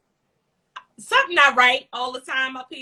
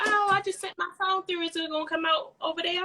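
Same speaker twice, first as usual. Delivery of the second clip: mimicking the lady; 7 semitones higher, 4 dB quieter than usual. Voicing the young lady, higher.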